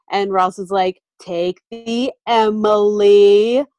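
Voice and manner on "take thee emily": slow, drawn-out patronizing Emily. Retold or imitated. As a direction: stretch Emily out as if to a child. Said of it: "in a patronizing way".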